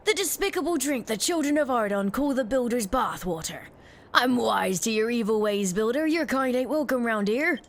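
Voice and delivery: stern zealot voice. Acted. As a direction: accuse the builder, cold and righteous. Voices a suspicious preacher figure.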